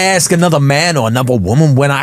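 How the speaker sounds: light American accent impression of Dame Dash; a hint of an American accent. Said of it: "please do it in an American".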